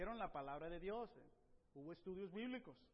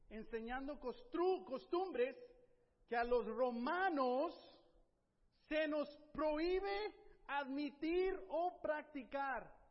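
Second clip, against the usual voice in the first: acusación a gritos; 5 semitones higher, 8 dB louder, slower than usual. Acted. Acusación ante magistrados romanos.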